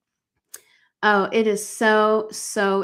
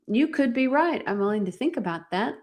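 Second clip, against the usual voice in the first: lilting and higher on "You could be right", then easing down; demonstrated non-defensive reply; 3 semitones higher than usual. Shown as a demonstration. Coach models a reply to gaslighting family, lightly non-defensive. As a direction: model an unbothered, open answer. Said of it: "I want you to hear my voice".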